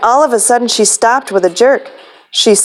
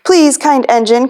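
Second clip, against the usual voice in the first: pleading toys; 3 semitones higher than usual. Acted. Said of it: "cried all the dolls and toys".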